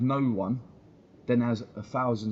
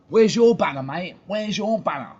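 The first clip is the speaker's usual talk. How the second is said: loud, higher jeering call to the club; mock shout at club; 7 semitones higher, 8 dB louder than usual. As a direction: yell it up at the club like a protester. Calling out the club.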